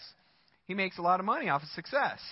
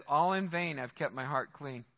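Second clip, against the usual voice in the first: weary despair; 5 semitones lower, 3 dB quieter than usual. Retold or imitated. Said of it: "thirteen, he says".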